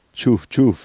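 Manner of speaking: train chug. Pretend. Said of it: "prega come un treno".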